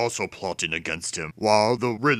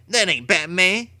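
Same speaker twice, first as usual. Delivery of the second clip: higher, sneering thug voice; a hint of a mocking gangster; tough crook; 9 semitones higher than usual. A narrator's reading. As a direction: scoff at the kid like a street tough.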